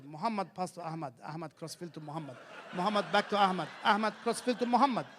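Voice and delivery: plodding mock commentary; dull commentator. Comic mocking a boring Egyptian commentator, plodding. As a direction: read the passes like nothing is happening. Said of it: "The commentary goes".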